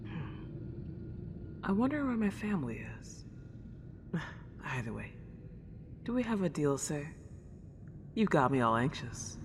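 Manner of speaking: a lonely house ghost, delighted to have company; Celine, old-fashioned ghost. Acted. Celine greets the new owner of her house, soft and old-fashioned.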